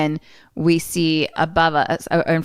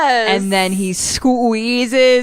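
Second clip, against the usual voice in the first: excited narration; 7 semitones higher, 5 dB louder, much slower than usual. A narrator's reading. Building gory climax narration.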